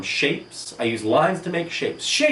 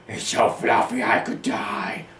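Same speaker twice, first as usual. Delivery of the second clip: breathless gushing whisper; delighted whisper; 5 semitones higher than usual. Real, not acted. Hugging a fluffy stuffed animal, gushing whisper. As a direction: whisper it like you can't contain the joy.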